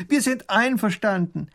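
high, loud thin little voice crying out; thin princess scream; princess shrieking. Acted. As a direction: shriek agreement across the river. Princess agrees.

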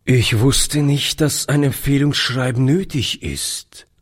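sad. Acted. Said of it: "antwortete Oliver traurig".

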